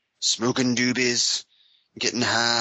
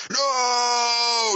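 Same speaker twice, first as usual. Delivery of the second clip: high anguished shout; overacted death scene; 12 semitones higher than usual. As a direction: cry out in hammy despair.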